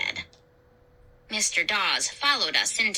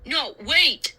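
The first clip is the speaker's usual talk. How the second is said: calling out; 4 semitones higher than usual. A narrator's reading. Dad calling after Josh as he takes off, calling out. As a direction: call after someone to stop. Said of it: "Dad called".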